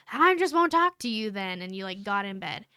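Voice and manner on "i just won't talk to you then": higher, louder huffy mock outburst; husband freaking out. Wife mimicking her husband's angry sulk. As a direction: imitate a sulky husband storming off. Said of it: "freaked out and were like".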